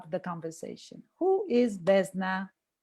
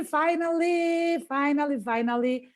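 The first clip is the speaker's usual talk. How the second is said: excited; 6 semitones higher than usual. Real, not acted. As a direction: savour each finally with joy. Host overjoyed opening her show.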